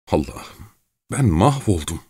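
moaning. Acted. Terrified Gavrila despairing before Çelkaş, moaning. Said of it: "diye inledi".

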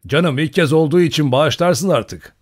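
lively mock apology; joking plea. A narrator's reading. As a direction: plead lightly in jest to be let off. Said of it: "diye şakalaştı".

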